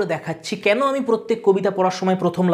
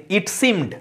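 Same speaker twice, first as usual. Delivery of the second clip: it seemed, second word stressed; light it, weighted seemed. Shown as a demonstration. Teacher demonstrating stress on the second syllable, seemed emphasised after it. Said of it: "সেকেন্ডটাতে তুমি stress দিলে".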